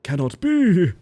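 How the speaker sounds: high, loud outburst; loud disbelief. Real, not acted. Player exclaims at the game, loud disbelief. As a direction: cry out in disbelief.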